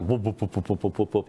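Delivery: lightly voiced whoop whoop of rotor blades; helicopter impression. Telling the flood joke to friends, a light helicopter whoop. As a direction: chop out the rotor sound, barely imitated. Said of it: "helicopter impression".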